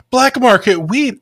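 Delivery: lightly exaggerated, baffled repeat; mock incredulous. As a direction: echo it back in mock disbelief. Mock disbelief at a research claim.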